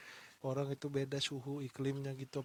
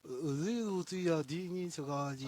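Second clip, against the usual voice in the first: put-on Russian accent; slower than usual. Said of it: "gayanya aja, aksen-aksennya".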